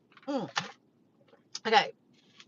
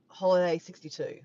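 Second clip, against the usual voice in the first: trying out "Holiday sixty-two" flatly, unconvinced; testing the sound; 5 dB louder than usual. Shown as a demonstration. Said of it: "Doesn't sound the same".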